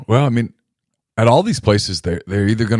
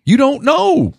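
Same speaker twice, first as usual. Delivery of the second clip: higher, sharp "Shut up", then "You don't know"; mock retort, sharp and raised; mock shout; slower than usual. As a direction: snap back at the know-it-all. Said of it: "I go".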